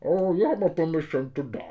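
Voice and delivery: hard-to-understand film villain voice; Bane. Acted. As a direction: speak through a hand over your mouth. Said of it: "ça serait pas mal que Bane, il parle comme ça".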